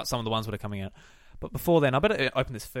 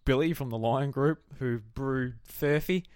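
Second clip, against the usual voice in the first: mock brewery rep; slower than usual. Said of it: "you get him to record".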